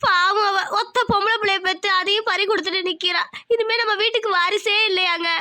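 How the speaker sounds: grieving grandmother on the edge of tears; tearful lament. Acted. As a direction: lament through restrained tears. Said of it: "அத்தை, அழாதீங்க அத்தை".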